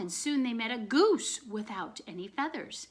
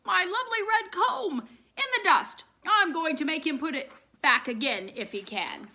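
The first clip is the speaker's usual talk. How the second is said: indignant rooster; 6 semitones higher, 5 dB louder than usual. A narrator's reading. Rooster fumes at rag man.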